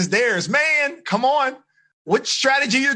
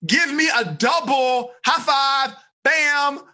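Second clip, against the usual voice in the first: slow, high call to the class; rallying shout; 5 semitones higher, much slower than usual. Real, not acted. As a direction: stretch it out and pump the room up. Coach rallies class for high five.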